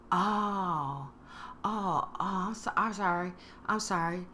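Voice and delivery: soft, subdued apology; appropriate sympathy. Acted. Friend hears about the impact, subdued sympathy. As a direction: let the concern sink in, quietly. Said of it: "with the tone of what would have been appropriate".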